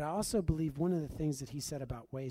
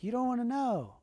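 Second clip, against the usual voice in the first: higher and louder, a firm no; loud insistent refusal; 10 semitones higher, 6 dB louder than usual. Retold or imitated. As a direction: push back hard, voice up high. Refuses again, pressed by her.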